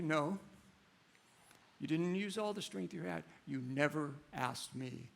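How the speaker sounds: gentle father. Acted.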